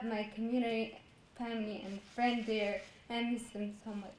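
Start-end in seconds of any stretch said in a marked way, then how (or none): none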